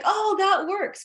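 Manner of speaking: a client's surprised relief, drawn out; mock relief. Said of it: "they're like".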